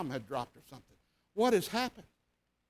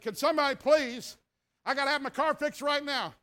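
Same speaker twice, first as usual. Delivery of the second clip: upset plea; 5 semitones higher than usual. Retold or imitated. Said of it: "I mean, I was upset".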